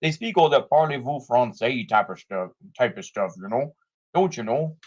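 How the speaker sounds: put-on Canadian-Minnesotan accent. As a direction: lightly caricature a Minnesotan-sounding Canadian accent. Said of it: "that's more of a Minnesotan accent".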